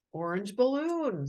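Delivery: dreamy proud. Acted. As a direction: say it slowly, full of wonder. Matilda proudly names herself.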